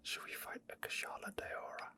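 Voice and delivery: usual speaking voice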